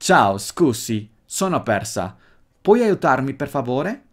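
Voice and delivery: full Italian accent, every word clearly intended. Shown as a demonstration. Teacher models asking a stranger for help, clear Italian accent. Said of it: "con todo el acento, con toda la intención bien claro".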